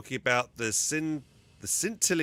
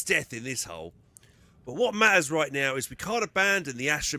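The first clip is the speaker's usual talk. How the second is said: higher, louder scoffing soldier; rough around the edges; 4 semitones higher, 5 dB louder than usual. Acted. Companion urges returning the Ogryn to command, rough around the edges. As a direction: argue the case as a rough companion. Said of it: "he's gonna be rough around the edges".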